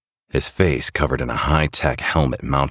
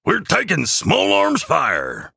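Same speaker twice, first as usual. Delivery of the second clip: high, drawn-out alert over comms; high-pitched elf sounding the alarm; calling out; slower than usual. A narrator's reading. Jingleman warns the crew of incoming fire, high calling out. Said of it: "calls out Jingleman over comms".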